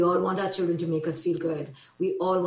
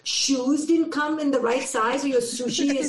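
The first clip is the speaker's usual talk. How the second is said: incredulous scolding, pitched higher; scoffing mom; 5 semitones higher, 3 dB louder than usual. Retold or imitated. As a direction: scoff at a spoiled kid, voice up. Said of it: "because I go".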